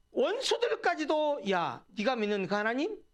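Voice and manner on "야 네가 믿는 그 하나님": jeering demand, rising in pitch at the end; acted-out taunt of an enemy; mocking taunt. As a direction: imitate a scoffer's challenge. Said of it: "라고 조롱하니까".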